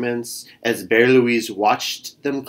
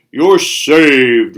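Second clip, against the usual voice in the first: mild ox roar; 7 dB louder than usual. Acted. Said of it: "roared the ox".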